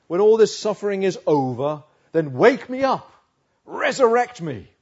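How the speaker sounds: loud, rising cry to God; impassioned plea. Acted. Preacher voices Job's plea to God.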